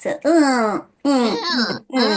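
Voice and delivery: repeated twangy grunts; nasal "uh" demo. Shown as a demonstration. Teacher letting the student feel air pushed up, nasal uhs. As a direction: push short sounds up into the nose. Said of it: "Can you feel that?".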